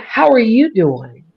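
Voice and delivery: measured, carefully worded office hello; proper corporate greeting. Shown as a demonstration. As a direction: say it slowly and properly, toning down the country. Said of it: "versus saying".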